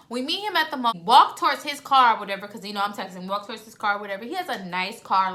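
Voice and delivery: usual speaking voice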